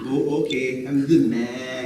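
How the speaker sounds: laughing imitation of composer. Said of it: "He's like".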